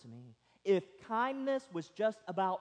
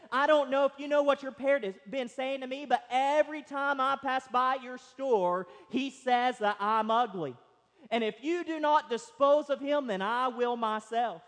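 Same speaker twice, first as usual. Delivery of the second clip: indignant complaint; 4 semitones higher, 3 dB louder than usual. Acted. Lady storms in, complains.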